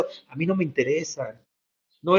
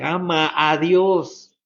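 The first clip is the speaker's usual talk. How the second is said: slow plea; much slower than usual. Shown as a demonstration. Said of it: "Con toda nuestra mente".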